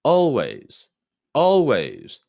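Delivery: always, strong, high, falling. Shown as a demonstration. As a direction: hit always hard from the top. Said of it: "항상 세고 높습니다".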